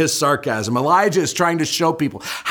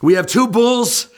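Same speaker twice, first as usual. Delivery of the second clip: showman's challenge; 7 semitones higher than usual. Retold or imitated. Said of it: "And so Elijah says".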